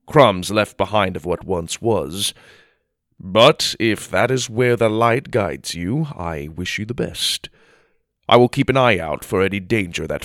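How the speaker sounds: measured, grave counsel; steady old knight giving warnings; wise old knight. Acted. Theodore advises the travellers.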